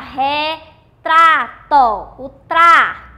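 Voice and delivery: "retrato" broken up, then "tra" repeated loud; syllable-by-syllable stress. Shown as a demonstration. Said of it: "vamos pronunciar". ("retrato" separado em sílabas, "tra" bem forte)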